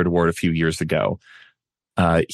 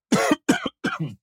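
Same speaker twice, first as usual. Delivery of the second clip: sudden choking cough fit; 3 dB quieter than usual. Real, not acted. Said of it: "I'm choking on my own saliva".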